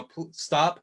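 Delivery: stenographer reading the record back; deadpan reading. Retold or imitated. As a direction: imitate a toneless read-back of an angry rant. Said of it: "this deadpan thing just reading it".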